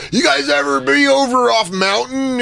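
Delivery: put-on high, slow slurry drunk comic; drunk stage banter. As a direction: ham up a wasted comic talking to the crowd. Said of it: "so I was probably like".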